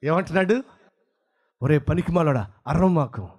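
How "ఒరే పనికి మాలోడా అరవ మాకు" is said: lion voice. Acted. Lion line repeated.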